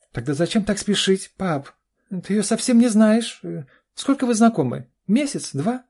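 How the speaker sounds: very high, loud flustered questions; alarmed daughter. A narrator's reading. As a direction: pepper him with panicked questions. Daughter panicking at news. (встревоженно, очень высоко и громко)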